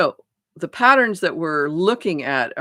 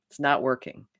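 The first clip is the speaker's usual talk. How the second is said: whispered, no voice at all; 2 semitones lower than usual. Shown as a demonstration. Showing listeners what to tell themselves, whispered. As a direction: breathe It's not working as a private admission. Saying stop to the pattern.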